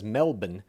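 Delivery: "Melbourne" said as MEL-bun; local pronunciation of Melbourne. Retold or imitated. Host quoting how Jen says it, "Melbourne" as MEL-bun. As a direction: swallow the second syllable of "Melbourne". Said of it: "as she says".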